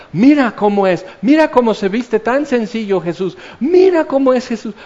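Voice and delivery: excited, high-pitched pointing-out on each "mira"; admiring onlookers. Acted. Onlookers watch Jesús pass by, admiring and excited. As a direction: mimic a gushing, admiring crowd. Crowd admiring Jesus as he passes.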